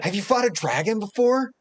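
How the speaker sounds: high, loud wide-eyed question; eager kid. Acted. Boy asking about dragons, high and loud. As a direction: ask it breathless with wonder.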